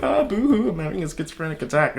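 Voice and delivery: high mock wail on boo-hoo, then a quick, dropped schizophrenic attack; sarcastic whiny impression; mocking whine. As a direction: parody a dramatic poster. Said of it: "go on the internet and be like".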